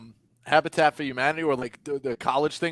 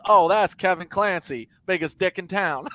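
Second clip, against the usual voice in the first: a light Southern drawl, slowed a touch; imitating a Southern girl's easy, unbothered drawl; Southern accent; 4 semitones higher than usual. Friend's brother's girl retold, in a lightly done Southern accent. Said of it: "like, Southern accent".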